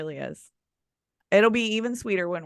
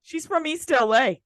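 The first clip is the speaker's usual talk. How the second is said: higher, put-on East L.A. accent; mom's East L.A. accent; 6 semitones higher than usual. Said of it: "She doesn't sound like that".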